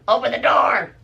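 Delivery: high-pitched demanding call; calling through a door. Acted. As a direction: imitate grandma demanding entry. Grandma yelling through the door.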